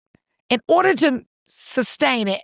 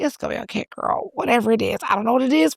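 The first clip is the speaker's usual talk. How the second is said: mild comforting; faster than usual. Retold or imitated. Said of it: "put my hand on her shoulder".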